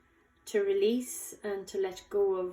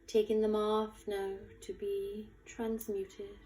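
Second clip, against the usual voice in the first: guided meditation. Acted. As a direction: guide them gently, unhurried, lingering on key words. Leads a guided visualization.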